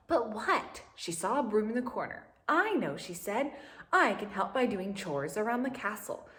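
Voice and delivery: lively storybook reading voice with lifted character lines; animated read-aloud for young listeners; reading to children. A narrator's reading. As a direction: read it like a picture book to a class.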